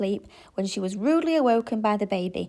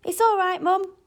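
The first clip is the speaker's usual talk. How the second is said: reassuring; 11 semitones higher, 5 dB louder than usual. A narrator's reading. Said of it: "he reassured her".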